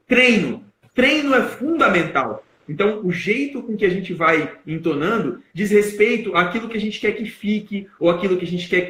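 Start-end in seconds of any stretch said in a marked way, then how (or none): 0.1-2.4 "treino" lifted high and punched; raised voice on treino. Shown as a demonstration. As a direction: suddenly raise the voice to hammer "treino". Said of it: "ele subiu a voz e falou". (voz elevada de repente, com ênfase em "treino")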